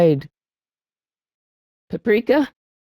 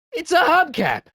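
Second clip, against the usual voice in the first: item fanfare; 10 semitones higher than usual. Acted. Triumphant item pickup.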